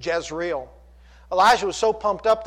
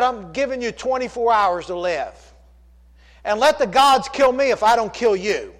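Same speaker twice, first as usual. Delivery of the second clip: mad; 5 semitones higher, 3 dB louder than usual. Retold or imitated. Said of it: "She sounded kind of mad".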